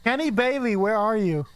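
loud call into the dark. Real, not acted. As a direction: shout the name to summon it. Calling out to the ghost.

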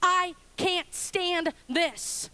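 mildly pained confession, slowing to the end; King David pouring out his honesty; David's honest complaint. Acted. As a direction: let the frustration drag out. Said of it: "he pours out his honesty".

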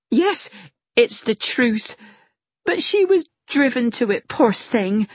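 lightly voiced gossiping maid; a hint of a servant sharing scandal.

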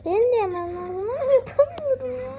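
playful pretend sob; mock crying. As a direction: whine like a kid who can't do it. Whining at hard game level.

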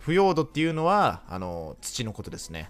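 lightly voiced kindergarten teacher tone; a hint of explaining to little kids; talking to toddlers. Streamer explaining the mushroom Pokémon like a kindergarten teacher, lightly. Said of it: "幼稚園児に話しかけるみたいな口調".

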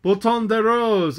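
"Bouton de Rose" bawled high, loud and slow across the water; bawled hail. Acted. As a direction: hail the ship at full voice. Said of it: "he bawled".

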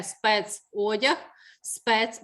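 «Спецодяг» slow and rising, then «Спец» alone; clear Е sound. Shown as a demonstration. Teacher repeats check word for class, slow clear Е in «Спецодяг». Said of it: "звук Е".

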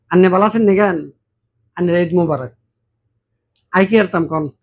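Noakhali dialect Eid greeting. Retold or imitated. A Noakhali neighbour wishing Eid Mubarak, in Noakhali dialect. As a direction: ask after them the Noakhali way. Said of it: "নোয়াখালীর লোক যদি আমাদের কাছে আসে".

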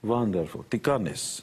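put-on light Hungarian accent, "Wonderful" said as vonderful; mild imitation of his Hungarian mother; a touch of mother's accent. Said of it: "she's Hungarian".

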